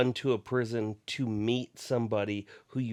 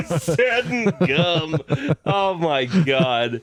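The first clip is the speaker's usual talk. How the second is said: laughing disbelief; 6 semitones higher, 9 dB louder, slower than usual. Real, not acted. Laughing at the joke.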